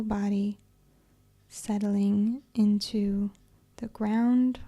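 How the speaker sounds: calm, unhurried yoga nidra guidance; measured, even-toned relaxation voice; guided meditation. Acted. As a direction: ease them into relaxation with long pauses between phrases.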